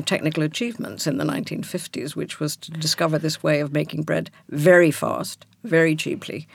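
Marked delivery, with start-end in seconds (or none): 0.0-2.2 mock-proud praise, stressed at the start; sarcastic. Real, not acted. Guest explaining a bread process to the host, sarcastic. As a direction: praise it with dry sarcasm, pausing before the superlative. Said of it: "I'm being sarcastic now".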